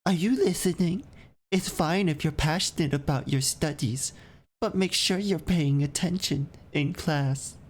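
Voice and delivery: stern teacher calling on a student. Acted.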